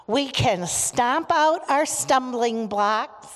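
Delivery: slow, emphatic prayer line. Real, not acted. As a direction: proclaim it for the group to answer. Leading children's call-and-response prayer.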